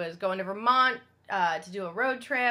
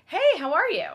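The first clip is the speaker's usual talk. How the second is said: high, loud, friendly hail; friendly greeting; 9 semitones higher, 8 dB louder than usual. Retold or imitated. Woman greeting a man sitting on a bench, friendly and loud. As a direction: call out a hearty hello. Greets stranger in retold encounter.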